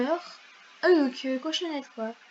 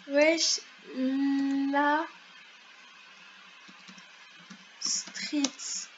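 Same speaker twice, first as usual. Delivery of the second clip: one word at a time, long gaps; very spaced-out, halting delivery; typing dictation; 4 dB quieter, much slower than usual. Real, not acted. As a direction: say each word as it gets typed. Says words while typing them.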